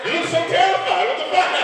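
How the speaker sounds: very high, loud incredulous squeal; amused disbelief. Real, not acted. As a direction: tease her shocked face. Teasing a frightened audience member.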